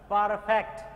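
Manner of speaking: "পারফেক্ট" loud, with open "faekt" ending; model pronunciation. Shown as a demonstration. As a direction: teach "পারফেক্ট" as "par-FAEKT", punched out. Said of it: "পারফেক্ট নয়". ("পারফেক্ট" জোরে, ফ্যাক্ট ধ্বনি দিয়ে)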